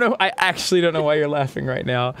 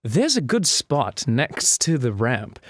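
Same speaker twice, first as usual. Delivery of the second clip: attempted British accent. Telling a childhood game story, attempted British accent. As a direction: put on an unconvincing British accent. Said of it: "not British".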